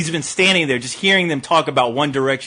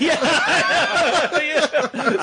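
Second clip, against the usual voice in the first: ordinary talk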